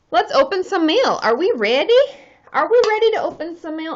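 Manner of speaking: rally the viewers for fun; excited hype. Real, not acted. Hyping the mail opening.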